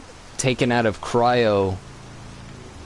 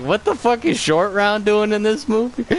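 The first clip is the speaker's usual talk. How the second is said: pitched-up what the hell; incredulous outburst; 10 semitones higher than usual. Retold or imitated. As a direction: blurt it out in total disbelief. Reacting to Short Round cameo.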